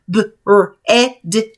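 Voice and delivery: slow spelled-out letters. Shown as a demonstration. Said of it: "Let's think to spell them".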